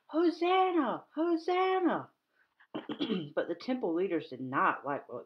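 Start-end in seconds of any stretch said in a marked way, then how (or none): 0.1-2.1 high, loud cries of praise; children shouting. Retold or imitated. Children in the temple praising Jesus, high joyful shouts. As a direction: cheer it like the kids in the temple. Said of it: "waved their palm branches and shouted".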